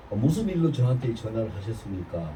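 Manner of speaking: polite formal tone. Shown as a demonstration. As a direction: ask it gently, with respect. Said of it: "내가 이렇게 금방지게 얘기한 거 아니에요". (공손하고 부드러운 말투)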